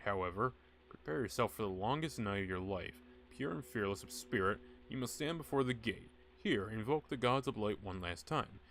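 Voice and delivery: grand, ominous prophecy read aloud; booming oracle warning the witch doctor; dramatic scroll reading. Acted. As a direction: intone it like an ancient prophecy. Reads ritual scroll dramatically.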